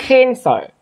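cancer with a smile-shaped A; flattened E vowel. Shown as a demonstration. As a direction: say the first vowel of cancer as a wide "æ". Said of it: "cái miệng của mình là cái nụ cười".

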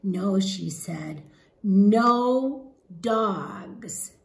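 lively, expressive storybook read-aloud; animated picture-book narration; reading to children. Acted. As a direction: read it to a class of young kids.

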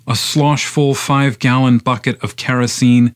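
measured, incantatory poem recitation; poetry reading. Acted. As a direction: recite the poem in long, driving phrases.

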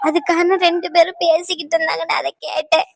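words broken by crying; tearful. Acted. Niece tells her aunt what she overheard, tearful. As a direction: report it through tears.

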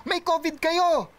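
half-acted angry holler; retold yell. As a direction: shout it like a rude stranger from afar. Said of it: "sinisigawan na siya".

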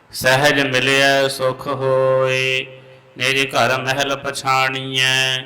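measured chant of Gurbani; santhya recitation. Real, not acted. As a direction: recite slowly, line by line. (Gurbani ਦਾ ਸੰਥਿਆ ਪਾਠ)

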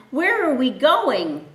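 scared donkey asking the strangers; frightened donkey. Acted. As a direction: ask it nervously. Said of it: "The donkey was frightened".

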